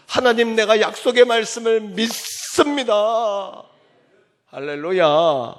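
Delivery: high, loud, slow declaration to God; fervent prayer-like cry. Acted. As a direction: proclaim it like a vow before God. (하나님께 외치듯 높고 느린 고백)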